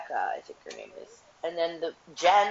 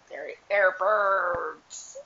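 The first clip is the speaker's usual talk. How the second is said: imitating mom; much slower than usual. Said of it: "she's like".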